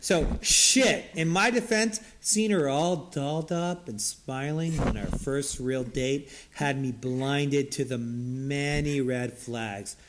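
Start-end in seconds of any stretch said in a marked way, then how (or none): 1.1-10.0 slow, measured mock-intellectual read; smart voice. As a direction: lightly play the smart guy, drawing out the words. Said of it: "I'll try to do smart".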